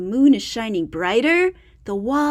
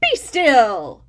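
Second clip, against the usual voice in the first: firm command; commanding Max; 5 dB louder than usual. Acted. Max taming the monsters, a firm command. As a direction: order them still. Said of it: "But Max said".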